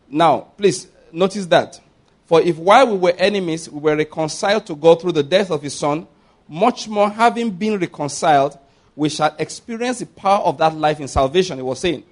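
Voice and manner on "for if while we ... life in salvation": emphatic, measured Bible reading; scripture reading. Acted. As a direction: read the verse out to the congregation. Reads scripture aloud to congregation.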